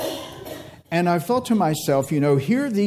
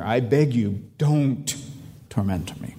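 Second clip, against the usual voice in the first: retold pleading; 4 semitones lower than usual. Preacher repeating the demon's plea to Jesus, understated pleading.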